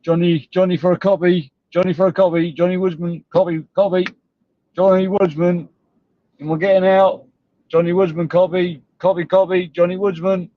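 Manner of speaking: mock radio operator calling for a copy. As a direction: hail him like a trucker on the CB. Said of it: "It's like a fucking C B call out".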